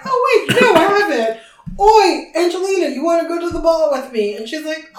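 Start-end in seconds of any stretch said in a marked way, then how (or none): 0.0-1.8 laughing. Retold or imitated. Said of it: "And he's like". 1.8-4.4 loud, high call across the room. Retold or imitated. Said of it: "And he's like".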